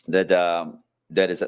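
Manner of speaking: stifling a sneeze mid-sentence; words caught by a coming sneeze; holding back a sneeze. Real, not acted. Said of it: "I'm trying not to sneeze".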